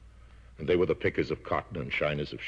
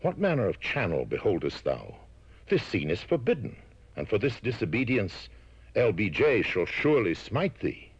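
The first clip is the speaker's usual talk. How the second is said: rising, outraged scripture voice; mock biblical prophet; 5 semitones higher than usual. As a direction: scold like an Old Testament man. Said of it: "And he said".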